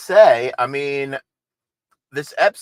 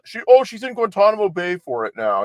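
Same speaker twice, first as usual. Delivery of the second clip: mocking conspiracy theorists; 4 semitones higher, 3 dB louder than usual. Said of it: "they say".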